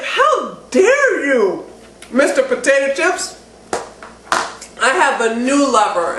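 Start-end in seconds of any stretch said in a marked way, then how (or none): 0.0-3.4 mock telling-off. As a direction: scold the potato chips like a jilted lover, half joking. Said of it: "You actually cuss it out".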